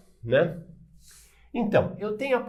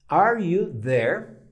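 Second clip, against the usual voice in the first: drawn out slowly, calling again; slow it down and call once more; slow repeated call; 3 semitones higher, 5 dB louder, much slower than usual. Shown as a demonstration. Teacher repeating the phone question slowly. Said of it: "Ligo pra você e falo".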